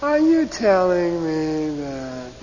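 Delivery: drawn-out, disbelieving question; slow sarcastic doubt. Shown as a demonstration. Teacher gives the English sense of the falling tell, slow and doubting. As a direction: stretch it out like you don't buy it. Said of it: "that's what it sounds like".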